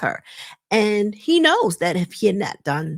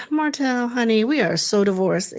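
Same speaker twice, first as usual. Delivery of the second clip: weary put-down. Retold or imitated. Retelling Mel's weary rebuff.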